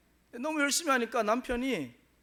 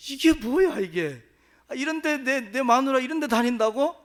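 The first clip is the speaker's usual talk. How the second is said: put-on loud, high outburst of a drunk husband; furious husband; 3 semitones higher, 8 dB louder than usual. Drunk husband bursting into church, shouting in loud fury. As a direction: bark it like a husband who's lost his temper. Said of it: "막 뚜껑 열려가지고 막 화가 나가지고".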